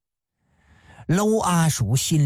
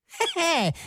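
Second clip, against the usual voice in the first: sly snicker; 11 semitones higher, 4 dB quieter than usual. Acted. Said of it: "娄阿鼠一声大喝".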